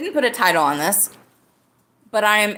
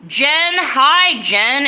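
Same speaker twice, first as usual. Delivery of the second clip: loud, bright hello called out to a friend; extra loud greeting; 5 semitones higher, 6 dB louder, much slower than usual. Real, not acted. Greeting Jen in the chat, extra loud. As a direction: call her name out loud like grandma in Texas. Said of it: "I'm being extra loud".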